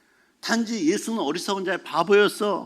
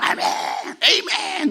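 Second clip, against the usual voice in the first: congregation answering amen; 9 semitones higher, slower than usual. Retold or imitated. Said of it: "뭐 이러자".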